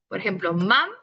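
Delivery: mam held apart as its own syllable; split word. Shown as a demonstration. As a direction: say mam, pause, then ma. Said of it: "dividan la palabra".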